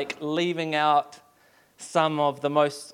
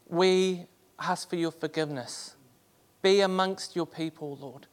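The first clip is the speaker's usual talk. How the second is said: hushed prayer; 3 semitones higher than usual. Acted. Quiet closing prayer.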